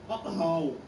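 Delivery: Hull said with a long round o, hoʊl; broad Hull vowel in Hull, like hole; mock local accent, Hull as hoʊl; put-on local accent. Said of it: "Sounded like someone else a minute ago".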